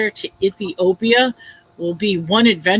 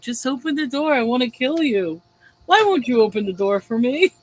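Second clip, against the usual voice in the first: imitating a calm, coaxing intruder; mildly pleading, unbothered menace; eerily calm. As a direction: ask it casually, as if harmless. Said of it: "he's so calm about it".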